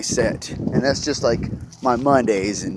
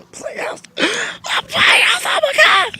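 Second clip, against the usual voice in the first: excited shout; slower than usual. Real, not acted. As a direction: yell it out in delight.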